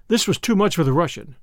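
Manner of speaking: ordinary delivery, nothing marked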